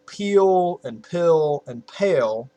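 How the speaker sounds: "peel and pill and pale" slowly drawn out; words drawn out. Shown as a demonstration. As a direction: stretch each of "peel and pill and pale" for comparison. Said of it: "all those words to them have the same pronunciation".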